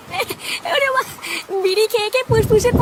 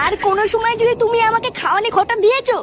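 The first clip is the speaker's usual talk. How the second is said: angry retort; 2 semitones higher than usual. Acted. Wife quarrels with husband over food.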